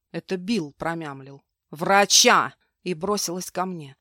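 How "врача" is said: loud insistent order; repeated order. Acted. Maid insists to the husband, loud insistent order. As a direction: hammer the order home.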